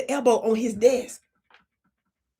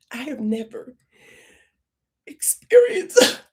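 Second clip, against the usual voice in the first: mock sob; 3 dB louder, slower than usual. Shown as a demonstration. Comedian faking a sob to manager Chuck. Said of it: "excuse me, I can't believe I'm doing this".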